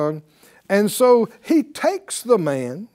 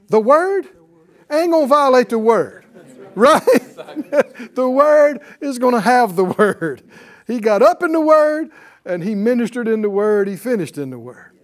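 preaching at full force; 6 semitones higher, 6 dB louder than usual. Acted. Preacher building on the word.

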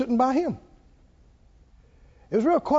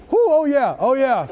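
mock ecstatic; 3 semitones higher, 5 dB louder than usual. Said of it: "What if I said".

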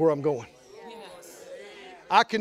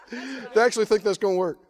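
amused, laughing scorn; God laughing. Retold or imitated. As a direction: chuckle at their foolish schemes. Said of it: "He goes".

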